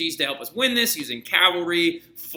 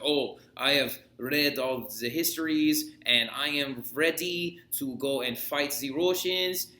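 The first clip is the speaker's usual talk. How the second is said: a lightly put-on grand voice, slowed down; Napoleon voice; 4 dB quieter, slower than usual. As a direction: play a pompous general, only a little off your own voice. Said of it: "I don't know why I sound like this".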